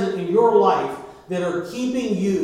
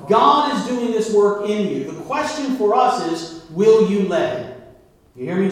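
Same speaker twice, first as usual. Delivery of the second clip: louder, rising preacher's call; fervent sermon delivery; preaching; 3 dB louder than usual. Acted. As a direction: press the congregation with questions. Preaching to congregation.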